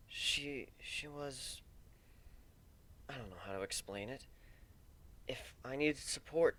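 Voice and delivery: soft, sorrowful stallion remembering his lost love; Warren, grieving and soft. Acted. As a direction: speak quietly, aching with loss. Warren voiced grieving softly.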